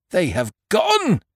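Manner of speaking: high, flustered landlord stammering; panicked. A narrator's reading. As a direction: blurt it out in a panic. Landlord announces dogs gone.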